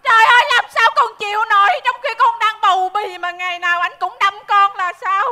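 theatrical, wailing grievance; tearful complaint. Acted. Pregnant wife complains about her husband, noisy lament. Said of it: "mày khóc lóc um sùm".

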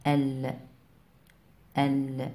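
"ال" ending on a held, vowelless l; sukun demo. Shown as a demonstration. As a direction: close "ال" on the l sound. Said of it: "اللام مع السكون".

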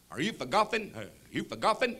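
goober driver. Acted. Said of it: "kind of a goobery looking guy".

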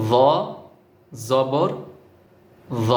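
য with the tongue touching the teeth, জবর without it; touch the teeth only for য; careful pronunciation. Shown as a demonstration. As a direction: lesson demo of য জবর য. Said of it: "খেয়াল করুন কিভাবে লাগাচ্ছি".

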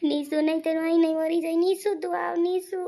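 loud, urgent calling out; desperate plea. Acted. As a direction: call after her, begging desperately. Same desperate calling after her.

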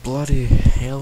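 annoyed gamer swearing at lag; frustrated outburst. Real, not acted. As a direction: blurt it out, fed up with the lag. Game lag frustrates him.

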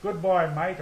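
a loud parting call; calling goodbye to his aunt as he gallops off. Retold or imitated. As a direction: toss a cheeky farewell over the shoulder.

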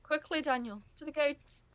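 high, loud urgent call; urgent urging. Real, not acted. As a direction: hurry them along. Urging teammate in game.

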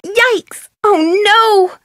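high startled yelp; sudden high alarm; alarmed surprise. Acted. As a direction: jump at the sight of the mess. Cake goes wrong.

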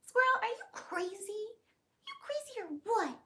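high, teasing pet voice; high pet talk. Real, not acted. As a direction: tease the squirrel playfully.

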